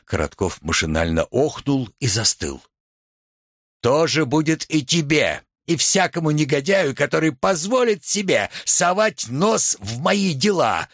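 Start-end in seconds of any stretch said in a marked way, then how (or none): 3.8-10.9 imposing. A narrator's reading. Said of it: "внушительно сказал юноша".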